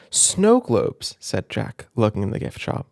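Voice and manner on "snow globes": high, bright-eyed cry; excited exclaim. Acted. Jack spotting snow globes in the gift shop, excited. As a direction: spot the snow globes with delight.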